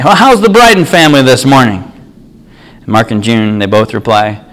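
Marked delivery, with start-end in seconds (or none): 0.0-1.9 a higher-pitched hint of a church greeter; lightly voiced greeter. Greeter welcomes the Bryden family at church, lightly acted greeting. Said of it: "there's some greeters there".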